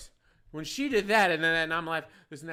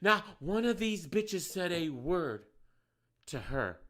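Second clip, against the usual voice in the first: softer, slow, restrained repeat; apologising to listeners, quieter; calmer; 8 dB quieter, slower than usual. Real, not acted. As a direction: pull it back after yelling. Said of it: "I'm sorry for yelling".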